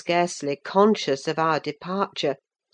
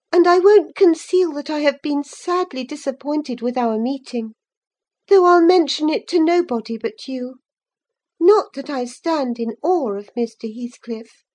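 put-on higher girl's voice, cool and proud; young Cathy, disappointed; 9 semitones higher, 5 dB louder than usual. A narrator's reading. Cathy telling Linton she is disappointed, higher and proud. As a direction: let her disappointment show, chin up.

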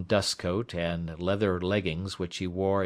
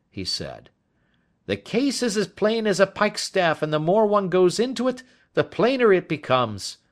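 higher, louder hearty inspector; Lestrade voice; 11 semitones higher, 5 dB louder than usual. A narrator's reading. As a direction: bluff and sure of himself, pitched up and loud.

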